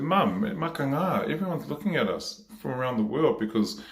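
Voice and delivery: high-pitched protest to mum; acted protest. Child argues with mum about the government, acted high protest.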